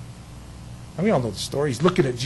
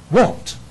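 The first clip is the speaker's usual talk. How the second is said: won't hit higher and louder; stress on won't; 4 semitones higher, 5 dB louder than usual. Shown as a demonstration. Correcting can't to won't, stressed. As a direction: land hard on won't. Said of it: "contrast can't and won't".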